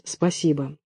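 barely breathed, very soft; whisper. A narrator's reading. A terrified woman whispers thanks to her captor. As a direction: breathe the thanks out, eyes shut. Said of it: "А я прошептала".

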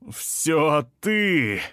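high, accusing roar; a crazed shout before he charges; furious yell. A narrator's reading. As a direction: hurl the blame at them. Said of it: "завопил он".

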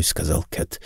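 ordinary delivery, nothing marked

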